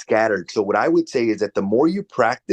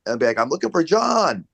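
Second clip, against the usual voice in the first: higher, matching sing-song greeting; mirroring their tone; 7 semitones higher than usual. Shown as a demonstration. Coach demoing how he mirrors a prospect's higher greeting. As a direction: copy the caller's lilt right back. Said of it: "mirroring how they're talking".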